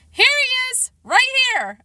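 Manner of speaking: high-pitched, excited yell; dad yelling. A narrator's reading. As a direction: holler to point someone out in a crowd. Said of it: "my dad yelled".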